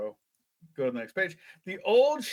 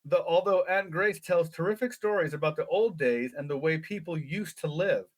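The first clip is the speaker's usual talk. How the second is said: lively read-aloud storytelling; story narration. A narrator's reading. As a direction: read it like a children's adventure book. Reads gamebook story aloud.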